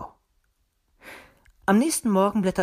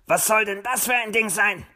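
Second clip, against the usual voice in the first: higher, baffled fox; puzzled question; 5 semitones higher than usual. A narrator's reading. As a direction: ask it in baffled wonder. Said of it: "fragte er verwundert". (verwundert fragend)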